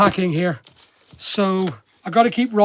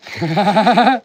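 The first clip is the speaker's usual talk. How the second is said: laugh; 4 dB louder than usual. Real, not acted. Laughs at a colleague's jab.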